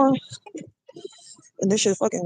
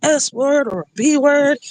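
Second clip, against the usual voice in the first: imitating partner; 6 semitones higher than usual. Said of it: "He's like".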